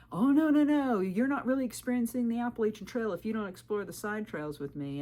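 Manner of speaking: mock the insistent creep who won't take no; pushy man. Creepy hiker pressing her, retold.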